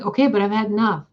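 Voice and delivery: repeated protest, sped up and exasperated. Retold or imitated. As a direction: rush "Okay, but I've had enough" out, fed up. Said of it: "And I'm like".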